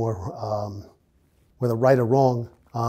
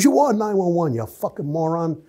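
sharp high yell that drops to a sneer; instructor going crazy; 5 semitones higher than usual. Retold or imitated. Academy instructor yelling at a recruit, mock furious. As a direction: blast the recruit for his dumb answer. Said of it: "This instructor goes crazy".

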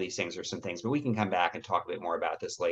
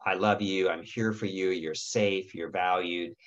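gentle reassurance. Shown as a demonstration. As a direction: talk her down gently, full of comfort. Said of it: "you wanna say".

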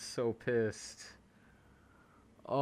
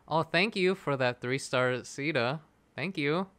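feigned gratitude; 3 semitones higher than usual. Pretend. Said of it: "can't say it with a straight face".

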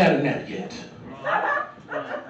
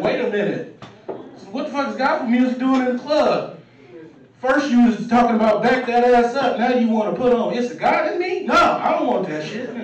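indignant protest; 4 semitones higher than usual. Retold or imitated. Protesting gospel in club.

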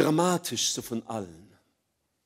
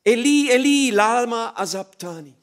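anguished cry, much higher and louder; desperate cry, much higher; 6 semitones higher, 7 dB louder than usual. Acted. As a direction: cry it out to heaven. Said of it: "schrie Jesus laut".

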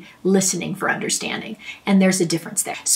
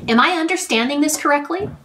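soft questioning tone; 6 semitones higher than usual. Shown as a demonstration. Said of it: "you're gonna have a soft tone".

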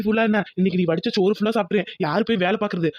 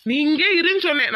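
raised-pitch firm command; insistent order; 7 semitones higher than usual. Acted. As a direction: insist that your wife stay put. Husband insists wife stays put. (அதட்டலாக)

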